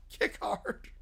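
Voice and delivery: "Kick hard." breathed in a whisper; whispered echo. Shown as a demonstration.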